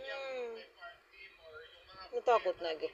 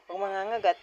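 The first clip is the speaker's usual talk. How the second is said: louder, firm don't-bite; sharp loud warning; 8 dB louder, faster than usual. Real, not acted. Baby bites, parent warns.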